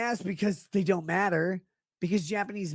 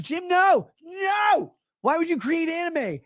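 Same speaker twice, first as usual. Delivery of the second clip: much higher, louder mock pleading; 9 semitones higher, 4 dB louder, slower than usual. Streamer begs Jim to stop, in hammed-up high pleading. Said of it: "I'm like".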